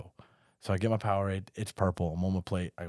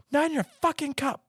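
drill sergeant. Retold or imitated. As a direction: bark it like a furious drill sergeant. Recruit retells sergeants yelling.

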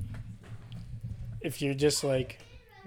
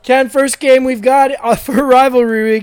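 loud, higher, punchy host voice; segment announcer; 4 semitones higher, 5 dB louder than usual. Pretend. Host gives Ken the first rivalry game, loud announcer delivery. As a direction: project it like a game intro.

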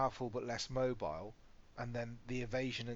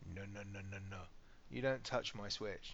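teasing dad; 3 semitones lower, 5 dB quieter than usual. Retold or imitated. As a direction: play the stern dad who is only joking. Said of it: "I'm like".

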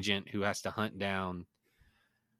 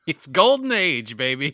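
laughing; 4 semitones higher, 8 dB louder, slower than usual. Real, not acted. Laughing hype about porn access.

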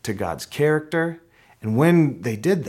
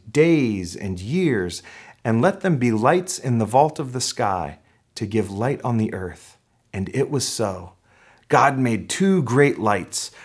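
scripture reading. Acted. Pastor reading day four to the congregation, deliberate scripture reading. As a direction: proclaim the verses with weight on key words.

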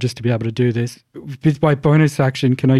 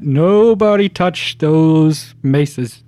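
drawn-out warning call, barely raised; mock yell; 3 semitones higher, much slower than usual. Player's character warns companions off cursed weapons, mild drawn-out yell. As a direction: stretch each word as a mild yell. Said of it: "I'm gonna yell at".

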